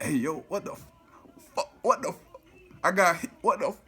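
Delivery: frantic high cries, pitch jumping way up; panicked yelling. Retold or imitated. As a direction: yell it in shock, just been shot. Just shot, yelling at 911.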